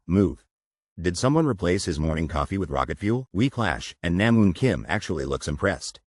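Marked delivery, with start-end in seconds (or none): 0.1-0.4 lightly raised command; mild shout. Retold or imitated.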